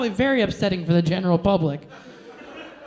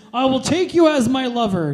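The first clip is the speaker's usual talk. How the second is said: mock pompous lover; 4 semitones higher, 3 dB louder than usual. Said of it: "Saturday Night Live character".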